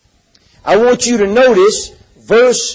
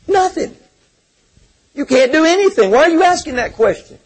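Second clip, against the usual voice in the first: higher-pitched imitation of a dismissive reply; mock objector; 6 semitones higher than usual. Preacher voicing what Peter did not say, mock dismissal. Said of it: "Peter did not say".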